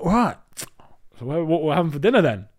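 high, loud eager question; mock eager. Arriving in Edinburgh, eagerly asking about dinner. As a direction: bounce in hungry and expectant. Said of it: "and I'm like".

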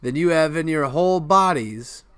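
high, haughty put-down; hammed-up cartoon boasting; mock boast. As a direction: lord it over the listeners. Boast continues after interjection.

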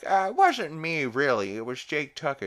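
high, loud defensive teen impression; Chris. Chris blaming Jake to Stewie, high defensive voice. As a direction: protest in a high put-on whine. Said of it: "Chris is like".

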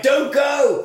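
high, loud pleading cry; mock pleading shout. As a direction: call after him, hammed up. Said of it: "Kelly's like".

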